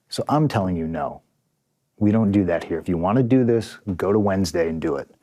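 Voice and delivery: calm, even retelling of a polite no; polite refusal. Retold or imitated. Wrestler politely turning down a colleague's stunt, calm and measured. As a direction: lay it out politely and evenly. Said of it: "And I very politely".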